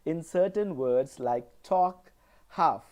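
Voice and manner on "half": half with no L, said ha; silent L. Shown as a demonstration. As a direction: drop the L, half as ha. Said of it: "There is no L sound in these words".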